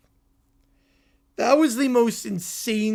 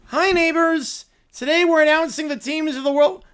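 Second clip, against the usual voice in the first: put-on cheery kids' show host; 6 semitones higher, 4 dB louder than usual. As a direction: welcome the kids like a gentle TV host. Host opens the skit draw.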